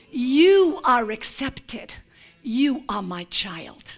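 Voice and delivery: slow, soft blessing to the returning son; tender father. Acted. Father welcoming his lost son home, slow and tender. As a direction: lay it gently on him, like a father's embrace.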